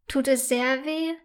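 soft, careful question; cautious. A narrator's reading. Girl gently asks the hurt bully about her knee. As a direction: ask gently, not to startle her. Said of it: "fragt sie vorsichtig".

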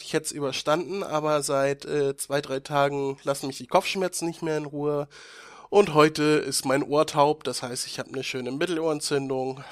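stuffy nose from a cold; sick nasal voice. Real, not acted. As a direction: talk with a blocked nose. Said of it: "nasal und erkältet".

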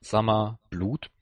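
Summer said the English way, like the name; Summer with an English vowel and dropped r, then Blut in German. Retold or imitated. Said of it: "er sagt wirklich Summer".

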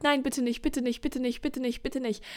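rock in the corner and beg; fading frightened plea. Acted. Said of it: "wippend in der Ecke sitzt und sagt". (leiser werdendes, ängstliches Flehen)

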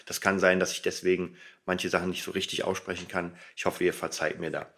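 talking with a retainer in; words slightly blurred by a retainer. Real, not acted. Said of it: "mit der Spange reden ist noch nicht so einfach".

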